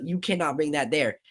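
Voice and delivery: mild imitated African accent. Security lady barring the camera, imitated African accent. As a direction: refuse with a put-on African accent. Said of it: "She has that African accent".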